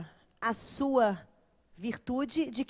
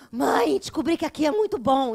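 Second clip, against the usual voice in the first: put-on excited child; 9 dB louder than usual. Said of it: "O que que você tá fazendo?".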